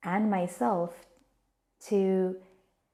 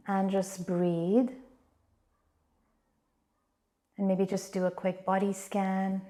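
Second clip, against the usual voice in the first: calm, unhurried meditation voice with long pauses; guided meditation. Real, not acted. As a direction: gently guide listeners inward, leaving space between phrases.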